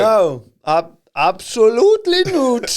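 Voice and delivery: high exaggerated protest; mock indignant. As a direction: protest in a shrill hammy way.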